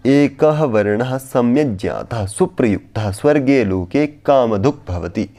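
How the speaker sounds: verse recitation. Shown as a demonstration. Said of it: "स्मृति ग्रंथों में कहा भी गया है".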